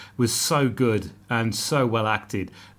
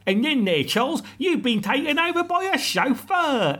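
mock posh accent; 12 semitones higher than usual. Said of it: "But he then goes".

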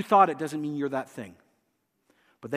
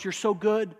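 sweet coaxing, a bit higher; flattering demon voice; 3 semitones higher than usual. Acted. Preacher voicing demons flattering a believer, coaxing. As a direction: flatter them into pride. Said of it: "they whisper the reverse".

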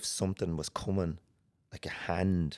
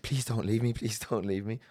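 higher-pitched imitation of begging; retold plea; 5 semitones higher than usual. Begging helpers not to leave, higher retold plea. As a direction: re-enact a mild, anxious plea. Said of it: "and I said".

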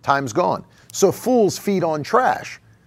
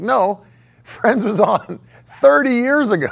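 laughing retort; 5 semitones higher, 3 dB louder than usual. Retold or imitated. Retorting to the nostalgic friend.

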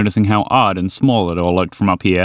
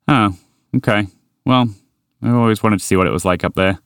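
grumbled. Acted. Walter disappointed about the skyscrapers, mild grumble. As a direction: grumble it a little, let down. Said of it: "Walter grumbled".

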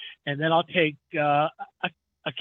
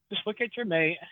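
quietly repeated, much softer; 3 semitones higher, 7 dB quieter than usual. Shown as a demonstration. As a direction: drop the voice on the repeat. Repeating marriage advice softly.

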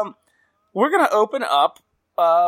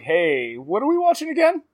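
casual text question; 4 semitones higher than usual. Retold or imitated. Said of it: "I'm like".

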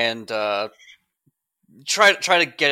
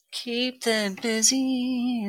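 slow drawn out; 9 semitones higher, 4 dB quieter, much slower than usual. Real, not acted. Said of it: "reading move name slowly".

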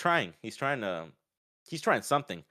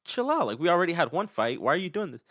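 exasperated plea; 8 semitones higher, 3 dB louder than usual. Retold or imitated. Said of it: "Moreno was like".

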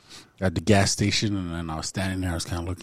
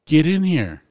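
higher-pitched retold yell; mock scream; 8 semitones higher, 4 dB louder, slower than usual. Women calling a dude into the bathroom, mock yell. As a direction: imitate an impatient summons without full screaming. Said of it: "they start screaming at the dude".

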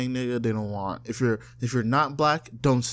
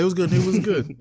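easy, lively street hello, pitched up; natural greeting; 5 semitones higher, 4 dB louder than usual. Shown as a demonstration. Greeting a friend the natural way, easy and casual. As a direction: toss it out lightly as everyday slang. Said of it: "If it feels natural".

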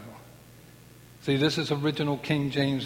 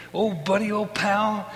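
louder, higher buddy greeting; imitating Daniel loudly; 6 semitones higher, 4 dB louder than usual. Daniel greeting his buddy, hammed up louder. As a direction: beam it out like an old pal. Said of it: "that's the way he spoke".

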